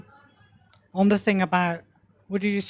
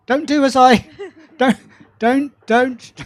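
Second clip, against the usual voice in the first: laughing; 4 semitones higher, 6 dB louder than usual. Real, not acted. Self-mocking joke, laughs heard.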